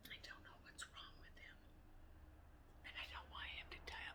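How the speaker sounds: hushed, breathy worry about the dog; almost inaudible, voice dropping away; worried whisper. Real, not acted. To the viewers about her ageing dog, whispering fearfully.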